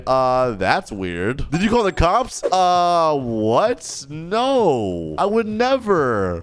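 slow, drawn-out playing dumb; feigned innocence. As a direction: stretch the words in mock innocence. Typing feigned innocence to captor.

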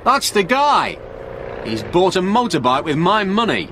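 high-pitched, worked-up accusation; excited shout. A narrator's reading. Frank accuses Stewart of spending his money, shouting excitedly. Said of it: "shouted Frank excitedly".

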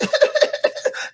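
high-pitched mock sobbing; imitated crying. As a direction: imitate tearful, stuttering sobs. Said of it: "had my tears in my eyes".

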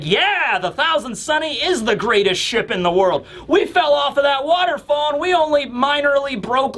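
high, proud cheering; Franky, really happy. Acted. Franky brags about his ship after the fall, really happy. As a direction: boast with delight. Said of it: "he's really happy".

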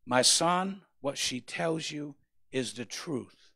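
slow, solemn voice from behind; slow commanding "make up your mind"; voice of God. Acted. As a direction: speak as the divine voice, deliberate. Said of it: "a verbal voice behind me say".

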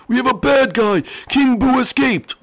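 high, loud urgent warning; squeaky panicked warning; high alarmed character voice. Acted. Character warns of King Boo.

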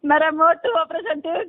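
sobbing as she speaks; crying. Real, not acted. Caller telling host about her operation, sobbing. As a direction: let the sob break the words. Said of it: "બેન રોયા જ કરશો".

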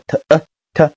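"t呃t" sounded out, then blended with a schwa; weak vowel. Shown as a demonstration. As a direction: spell out "t呃t" in separate sounds. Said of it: "它要变成呃呃呃的音".

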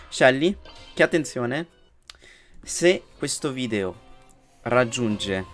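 grab the viewers' attention; hyped announcement. Real, not acted. (annuncio entusiasta)

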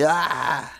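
drawn-out "ah" at no great volume; demonstrated mock yell. Shown as a demonstration. Player showing teammates how he shouts, mock yell. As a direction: act out your own shouting, held back. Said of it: "sometimes I'm like".

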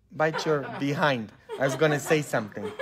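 chuckling through the words; half laugh at your own near slip; amused. Real, not acted.

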